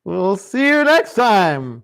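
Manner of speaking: slow, hammed-up villain farewell. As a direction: drag it out like a cartoon villain. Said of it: "said that like a villain".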